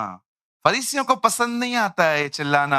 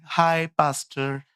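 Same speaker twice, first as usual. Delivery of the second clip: mimicking casual greeting; slower than usual. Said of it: "उस दिन आई एक बहन".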